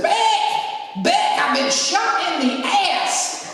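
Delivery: panicked man calling through the door; frantic call. Retold or imitated. Man bursts in, shot.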